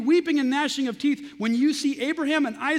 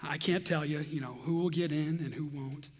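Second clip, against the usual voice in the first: Joel Osteen smile; 8 semitones lower, 9 dB quieter than usual. Retold or imitated. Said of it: "give him a sort of a Joel Osteen smile and say".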